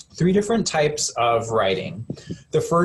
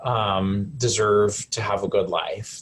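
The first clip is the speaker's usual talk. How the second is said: slow, tender; slower than usual. Shown as a demonstration. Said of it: "you say the same words over again".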